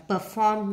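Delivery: slow "perform" stressed on "form"; second-syllable stress. Shown as a demonstration. Teacher marking word stress, "perform" stressed on the second syllable. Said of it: "nhấn âm hai".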